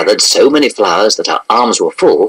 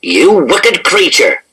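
slow, raised-pitch indignant cry; mild rage; 7 semitones higher, slower than usual. A narrator's reading. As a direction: draw out the accusation, mildly enraged. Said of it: "he cried in a rage".

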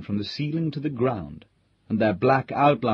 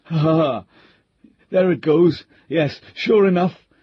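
reassuring himself; 5 semitones higher, 5 dB louder than usual. A narrator's reading. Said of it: "reassuring himself with the sound of his own voice".

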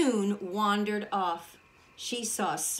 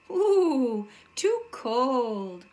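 surprised; 3 semitones higher, 5 dB louder, much slower than usual. Acted. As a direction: recoil at the cold porridge. Tasting cold porridge.

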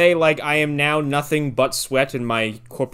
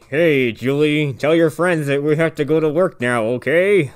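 imitated dad forcing politeness through his teeth; gritted-teeth niceness. Dad dismisses her friends, gritting his teeth. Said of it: "Just gritting his teeth the whole time".

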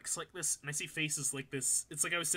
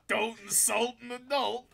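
higher, wailed comic line; exaggerated high-pitched repeat; mock outrage; 7 semitones higher, 3 dB louder than usual. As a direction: wail it higher, hammed-up.

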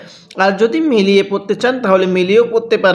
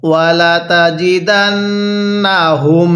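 Quran recitation. Shown as a demonstration. Teacher leads students in reciting along. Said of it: "পড়ুন".

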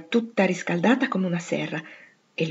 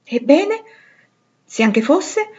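a touch of mischief; 5 semitones higher, 5 dB louder, slower than usual. A narrator's reading. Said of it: "con una punta di malizia".

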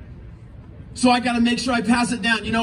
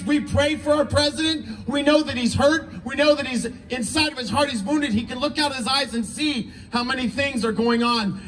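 prayer. Acted. Leads the crowd in prayer.

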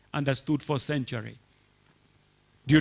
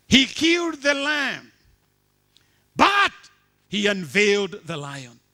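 loud, high shouted proclamation; preaching climax; 5 semitones higher, 6 dB louder than usual. Acted. Preacher crying out the sermon's key line, loud and high. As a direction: build to the punchline. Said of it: "preaching climax".

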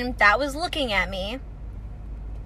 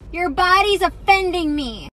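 mock rude stranger; 5 semitones higher, slower than usual. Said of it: "I hear".

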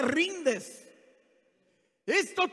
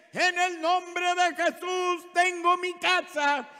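chanted cry held on one raised note; imitated shouted declaration; 3 semitones higher than usual. Woman declaring her house for months, imitated shouting. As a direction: call it out like a daily proclamation. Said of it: "Y gritó otro mes, tres meses".

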